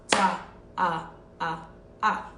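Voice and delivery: "Ta" carried on through "ah, ah, ah"; whole-note counting. Shown as a demonstration. Teacher shows one long sound, whole-note counting. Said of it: "long sound over four beats".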